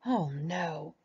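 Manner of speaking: a hint of panicked Rabbit, rising on you-know-who; mock alarm at the sight of Tigger; mildly panicked Rabbit; dismayed cry. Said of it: "cried Rabbit".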